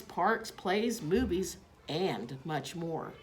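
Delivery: ad read. A narrator's reading. Reading an ad aloud.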